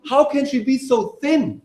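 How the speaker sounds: high, slow, incredulous; mocking incredulous question; amused disbelief. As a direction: say it like it's hilarious. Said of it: "they actually laugh their heads off".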